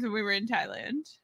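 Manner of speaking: breathy hushed aside; whispering. Real, not acted. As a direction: say it under your breath.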